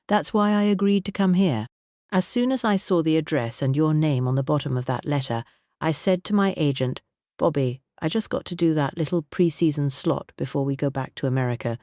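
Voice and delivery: a warm, grand singer's voice; Vivian voice. Acted. Vivian explains.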